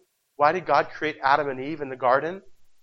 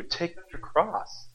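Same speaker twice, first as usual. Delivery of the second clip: hushed solemn; 6 dB quieter, slower than usual. Acted. Solemn quote of Jesus' command.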